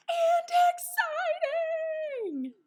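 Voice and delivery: very high, loud and slow burst; stretched, soaring, loud thrill; explosive excited squeal. Acted. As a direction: shriek it out with glee.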